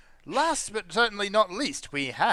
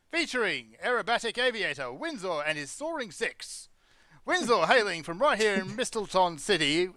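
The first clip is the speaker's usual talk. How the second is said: announcer voice. Acted. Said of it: "the announcer voice".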